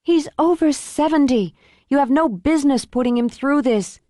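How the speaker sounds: a mild rebuke to the writer; protective indignation. Acted. Olivia protective outburst.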